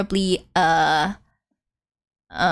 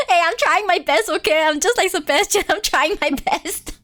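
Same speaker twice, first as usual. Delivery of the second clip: laughing, higher-pitched plea; playful protest; 6 semitones higher than usual. Pretend. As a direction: protest your effort through giggles. Playfully protests to the watching friend.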